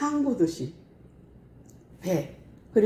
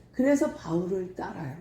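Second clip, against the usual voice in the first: normal talking voice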